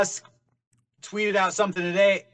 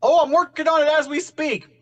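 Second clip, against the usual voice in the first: imitating Johnny; 9 semitones higher, 4 dB louder than usual. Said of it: "he should be here saying".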